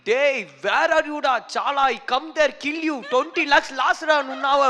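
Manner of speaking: retold angry call from the director, hammed up; angry director's scolding. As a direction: scold the assistant over the phone like a raging boss. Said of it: "He called me".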